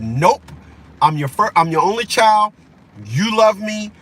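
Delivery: defiant spoiled kid, mildly voiced; a hint of the daddy's girl talking back; sassy and entitled, lightly imitated; bratty daughter attitude. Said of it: "that attitude that my own daughter had".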